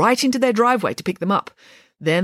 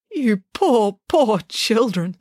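sympathetic; 4 semitones higher, 3 dB louder, much slower than usual. A narrator's reading. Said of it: "sympathised Nanny Piggins".

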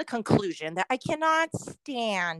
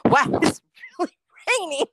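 higher, louder and fast, mimicking a clueless stranger; mocking obvious stranger; 7 semitones higher, 5 dB louder, faster than usual. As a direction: parody the guy who states the obvious. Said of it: "somebody comes in behind me and says".

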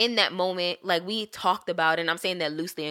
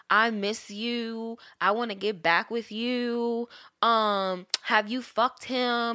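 mock text readout; 2 semitones higher, much slower than usual. Reading out his texts mockingly.

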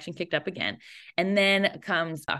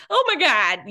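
squealing oh my God, much higher and louder; giddy high squeal of joy; high-pitched giddy laugh; 11 semitones higher, 7 dB louder than usual. Retold or imitated. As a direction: shriek it through laughter. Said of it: "that high pitched laugh".

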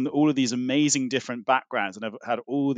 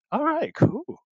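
unimpressed politeness; 11 semitones higher, much slower than usual. Retold or imitated. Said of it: "everyone just kind of was just like".

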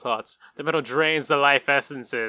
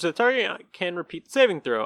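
ordinary talk

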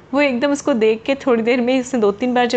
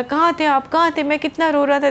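excited reunion; 3 semitones higher than usual. Acted. Child reunites with parents.

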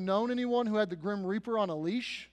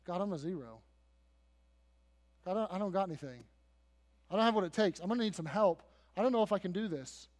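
softly voiced, self-doubting reluctant leader; quiet, mild plea of someone out of his depth; humbled Moses; 5 dB quieter, much faster than usual. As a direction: admit inadequacy, a touch subdued. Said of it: "Moses has a whole different tune".

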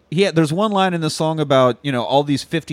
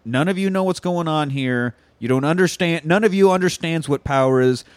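solemn Jesus; 3 semitones lower, slower than usual. Retold or imitated. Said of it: "Jesus again's like".

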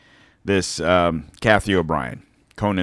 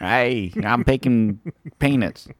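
Jimmy Carter; slower than usual. Retold or imitated. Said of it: "his was more Jimmy Carter".

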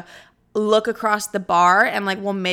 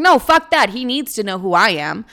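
defiant; 5 dB louder than usual. Retold or imitated. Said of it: "I'm like".

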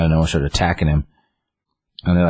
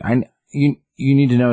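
imitating old man; 8 semitones higher than usual. Old Gramps voiced in recap.

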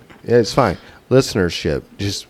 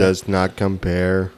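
slow, drawn-out mock robot; 3 semitones lower, slower than usual. Co-host joking about the beer, mock robot. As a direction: lightly play a robot, every word spaced out. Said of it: "I am a robot".

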